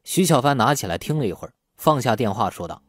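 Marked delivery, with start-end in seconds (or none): none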